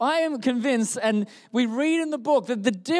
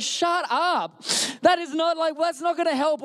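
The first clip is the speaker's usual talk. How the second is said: higher-pitched, indignant mock yell; 5 semitones higher than usual. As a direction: cut him off as an exasperated Philip. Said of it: "starts yelling at Andrew".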